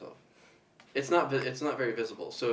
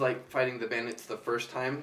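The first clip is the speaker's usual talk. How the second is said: normal talking voice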